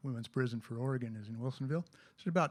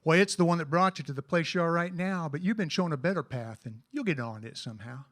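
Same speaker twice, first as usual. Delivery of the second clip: cowboy poem recitation; cowboy poetry. Acted.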